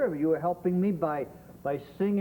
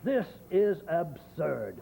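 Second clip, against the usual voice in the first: indignant; much slower than usual. Shown as a demonstration. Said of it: "You have to say".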